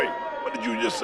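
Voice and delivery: quick hushed whisper of disbelief; stunned whisper. Acted. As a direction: breathe it out in shock. Host stunned by lawyer's name.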